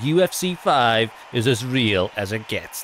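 slow, scripted hard-sell read; the speaker reading a script. Retold or imitated. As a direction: read it like a rehearsed line. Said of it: "that's not how he normally speaks".

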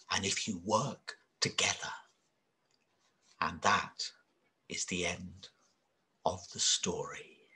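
soft ending. A narrator's reading. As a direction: fade to a hush to end the story. Bedtime story ending.

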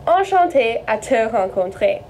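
Enchanté à te rencontrer in careful French sounds; French phrase demo. Shown as a demonstration. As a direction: model Enchanté à te rencontrer for learners. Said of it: "translates over to".

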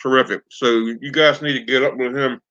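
talking through a mouthful of food; words round a big bite; mouth full. Real, not acted. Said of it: "Excuse me for talking with a mouthful".

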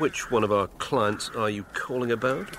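smooth agent answering the phone. Acted. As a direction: play the slick talent agent. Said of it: "Big J Talent Agency".

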